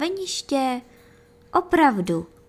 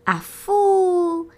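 high, louder whooshing sled sound; 9 semitones higher, 5 dB louder than usual. Acted. Narrator making the ant's sled swoosh for children, high and loud. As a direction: swoosh like sliding fast downhill.

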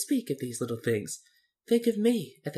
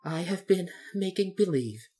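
falling, sheepish confession; meek admission; 7 semitones higher than usual. A narrator's reading. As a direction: confess it timidly, pitched up. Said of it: "said the little man meekly".

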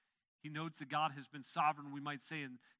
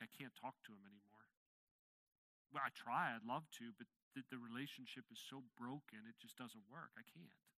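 quiet weary resignation; 3 semitones lower, 6 dB quieter than usual. Retold or imitated. Voicing broken relationship.

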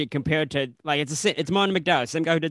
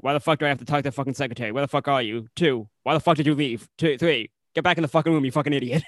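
berating boss; faster than usual. Retold or imitated. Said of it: "it's just berating him".

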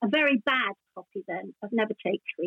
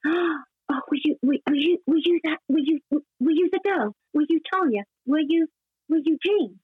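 excited fans; 3 semitones higher than usual. Retold or imitated.

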